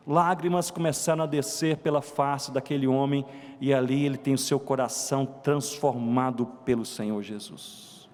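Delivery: low, slowing, hushed preaching voice; solemn testimony. Real, not acted. Preacher recounts a man's tears and conversion, low and solemn.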